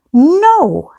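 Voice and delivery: high, loud, drawn-out no; acted refusal. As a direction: play an indignant refusal. Karen refuses the massage offer.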